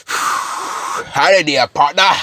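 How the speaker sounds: drawn-out cowboy greeting; cowboy drawl. Acted. Carnage in a cowboy hat, cowboy drawl. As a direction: put on a slow cowboy twang. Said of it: "a cowboy hat".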